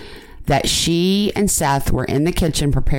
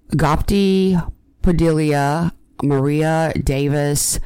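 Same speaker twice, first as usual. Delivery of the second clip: choked up; slower than usual. Real, not acted. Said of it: "I'm getting choked up".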